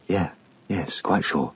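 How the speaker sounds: quiet, gentle confirmation; soft reassurance. Acted. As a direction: soothe the inner child softly. Reassuring answer.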